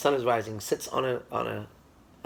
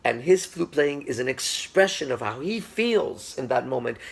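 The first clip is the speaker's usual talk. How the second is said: slow, higher, louder, savouring each phrase; reverent emphasis; 4 semitones higher, 3 dB louder, slower than usual. Retold or imitated. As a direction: speak of the master with awe. Student explains master's sacred playing.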